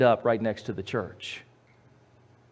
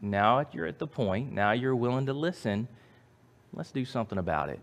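loving God; 5 dB quieter than usual. Acted. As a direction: speak as a patient, loving God. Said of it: "very lovingly, God says".

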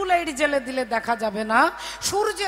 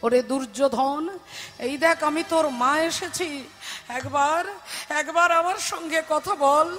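crying mother. Acted. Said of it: "মা কাঁদতে কাঁদতে বলছে".

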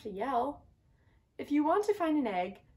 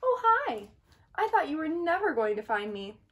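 cheerful; 4 semitones higher than usual. Acted. Meg found, cheerful.

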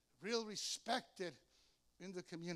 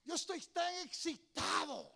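excited Spanish; 6 semitones higher, 4 dB louder than usual. Retold or imitated. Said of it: "I said to them like that".

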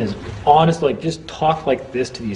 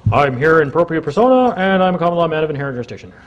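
mock recited script; 4 semitones higher than usual. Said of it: "read something online and came in".

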